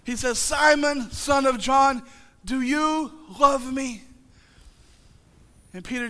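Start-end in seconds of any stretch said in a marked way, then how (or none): 0.4-4.0 gentle question. Acted. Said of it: "He doesn't say that at all".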